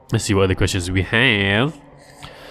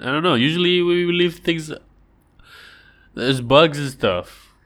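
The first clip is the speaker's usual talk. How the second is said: puzzled fisherman; 7 semitones higher than usual. Pretend. Fishermen debating the dry fish.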